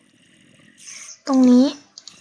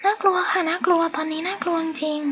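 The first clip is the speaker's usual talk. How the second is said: much softer, hushed with real fear; scared hush; 7 dB quieter than usual. Real, not acted. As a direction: keep it down so the mobs won't hear. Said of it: "ทำไมพี่ฟ้าต้องทำเสียงเบาด้วย เพราะว่าพี่ฟ้ากลัว". (พูดเสียงเบาเพราะกลัวจริงๆ)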